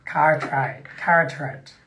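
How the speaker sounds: "Cartwright", "Carteret" with American r's; American accent. Shown as a demonstration. Host trying out an American town name, American accent. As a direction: say each like an American. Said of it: "imagine you're saying it like an American".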